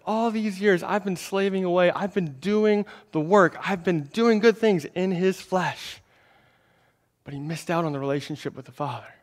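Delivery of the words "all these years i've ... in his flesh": slow, resentful complaint, a touch higher; mild mock grievance of the dutiful son; aggrieved older brother. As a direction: whine about years of slaving away. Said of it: "is angry".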